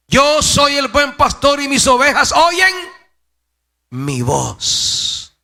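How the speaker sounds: loud, high-pitched preacher's shout; full-voiced, high scripture declamation; declaimed proclamation. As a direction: cry it out to the whole congregation. Preacher declaims Jesus' words.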